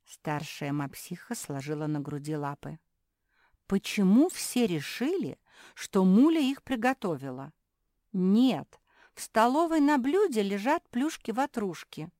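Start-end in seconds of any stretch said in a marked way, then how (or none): 3.7-12.1 high, loud correcting voice; older pug sister, exasperated. Acted. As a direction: set the youngsters straight, loudly.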